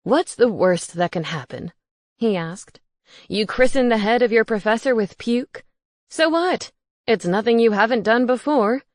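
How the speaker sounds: ghost roommate voice. Acted. Gareth teasing.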